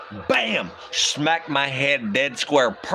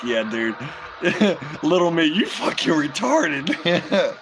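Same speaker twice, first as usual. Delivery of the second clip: laughing at little me; 3 semitones higher, slower than usual. Retold or imitated. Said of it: "I'm like".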